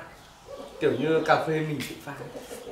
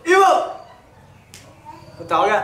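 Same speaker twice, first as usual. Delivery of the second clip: excited; 11 dB louder than usual. Real, not acted. Calling out at dog.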